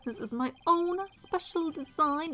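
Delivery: self-satisfied, theatrical dandy; lightly voiced affected dandy. Dandy presents his own special design, affected and proud. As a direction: show off proudly as a vain designer. Voices Mister LaBelle, same character.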